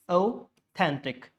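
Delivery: authentic drawn out as au-THEN-tic; slow authentic, weight on THEN; stress on second syllable. Shown as a demonstration. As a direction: break authentic up to show the stressed middle. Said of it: "second one".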